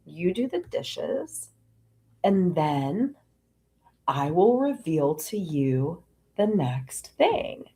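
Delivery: slow, measured divine instruction; voice of God. Retold or imitated. God telling her to do dishes first, slow measured pronouncement. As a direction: lay it down slowly, with pauses, as God. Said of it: "God is showing me".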